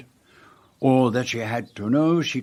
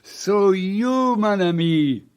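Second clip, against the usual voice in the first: laughing reveal; 8 semitones higher, slower than usual. Acted. Poirot laughs revealing the answer.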